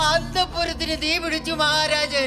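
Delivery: alarmed announcement. Acted. Servant announces fire to king.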